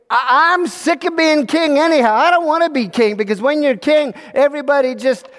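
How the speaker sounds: high-pitched exasperated outburst; fed-up venting. Acted. Little king confessing to advisors he's had enough, exasperated.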